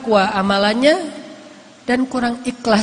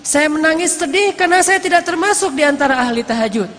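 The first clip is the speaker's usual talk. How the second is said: raised pitch, acted grief without sobbing; impassioned lament; 5 semitones higher than usual. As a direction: retell a pious man's sorrowful confession. Orang saleh mengungkapkan kesedihannya. (ratapan penuh perasaan, nada meninggi)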